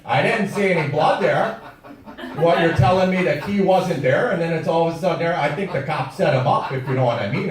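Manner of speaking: mock the Wisconsin locals with a hint of Wisconsin twang; playful Wisconsin accent impression; Manitowoc Wisconsin accent. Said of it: "that is the way ninety-five percent of the people in Manitowoc, Wisconsin talk".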